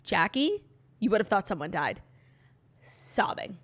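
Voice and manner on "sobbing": whispered. Real, not acted. Whispered punch word.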